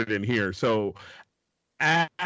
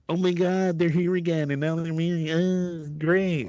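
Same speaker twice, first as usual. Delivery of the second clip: put-on weary complaint, pitched up; mock exasperation; 6 semitones higher than usual. Onlooker seeing the engaged couple again, higher mock exasperation. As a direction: sound fed up with the happy couple. Mimics bored convention onlooker.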